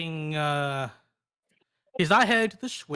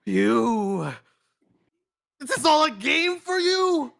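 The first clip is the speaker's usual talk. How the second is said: rising, high-pitched indignation; wounded outrage, pitched up; outraged confrontation; 7 semitones higher, 3 dB louder, slower than usual. Acted. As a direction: accuse the villain, voice climbing high. Outraged hero confronts villain.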